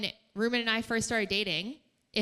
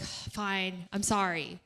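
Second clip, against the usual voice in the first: grudging sorry; 2 semitones lower, much slower than usual. Retold or imitated. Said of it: "that's how we sound".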